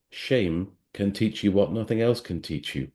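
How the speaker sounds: measured, unhurried recital of a poem; poem reading. Acted. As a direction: read it like a spoken-word poem, letting the lines breathe. Reads a poem aloud.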